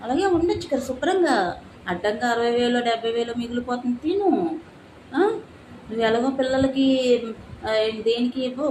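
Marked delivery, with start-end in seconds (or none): 0.0-4.6 mock her mother's well-meant nagging; imitating mother. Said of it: "అమ్మ అంటూ ఉంటది కదా".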